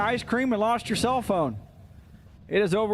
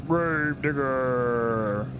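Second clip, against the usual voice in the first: dramatic name call; 7 semitones lower, much slower than usual. Acted. Dramatic monster-truck name call.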